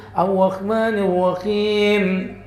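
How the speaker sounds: slow "Ar-Rahmanir Rahim" with a weak, shallow R; Banjar R. Retold or imitated. Ustadz imitating a Banjar imam reading, R barely rolled. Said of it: "kalau ngomong R kurang dalam".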